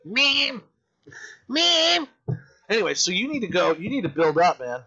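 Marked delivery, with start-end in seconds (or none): 0.0-2.1 calls rising much higher each time; calling out. Real, not acted. Calling his mother again and again, rising higher. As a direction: keep calling her, pitching up.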